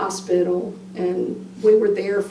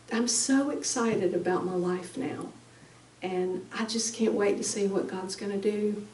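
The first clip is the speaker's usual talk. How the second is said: soft excited son; 6 dB quieter than usual. Retold or imitated. Son's last words retold softly.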